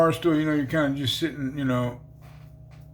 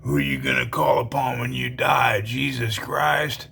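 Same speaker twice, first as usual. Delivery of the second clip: menacing voice. Retold or imitated. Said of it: "I hear this voice".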